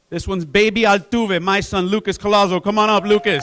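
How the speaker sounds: loud and proud, calling him up; proud announcement. Real, not acted. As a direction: announce your own son with pride. Coach proudly announces his own son.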